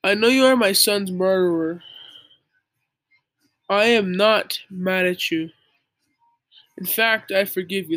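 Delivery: a hint of a calm, wise dad forgiving. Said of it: "in such a wise voice".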